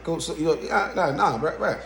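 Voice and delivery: mock-casual cop, laughing it off; offhand, amused shrug of a voice; casual, nonchalant. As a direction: brush off a killing like nothing, half laughing. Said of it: "he's so nonchalant about it, so casual".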